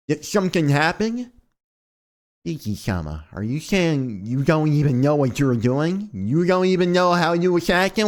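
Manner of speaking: a hint of a puzzled maid; lightly voiced Hisui.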